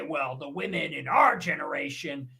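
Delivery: a hint of a nostalgic boomer lecturing; mocking an old man praising past wives; boomer impression. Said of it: "a boomer would say".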